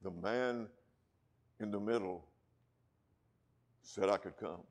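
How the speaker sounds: a hint of a Scottish brogue, soft and unhurried; lightly imitating a Scottish preacher; quiet, understated Scottish accent. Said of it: "in that Alistair Begg Scottish brogue".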